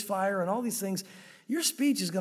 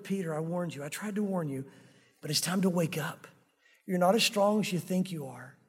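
tender warning; 3 semitones lower than usual. Acted. The Lord's look at Peter.

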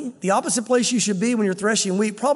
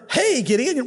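higher-pitched startling call; sudden greeting; 4 semitones higher, slower than usual. Acted. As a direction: pop out of nowhere and hail him. Imitates a stranger suddenly appearing.

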